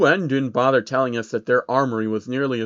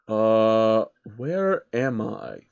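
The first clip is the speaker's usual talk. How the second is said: puzzled, looking around; lost old man; 3 semitones lower, much slower than usual. Acted. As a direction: Soros confused alone in the desert. Soros lost.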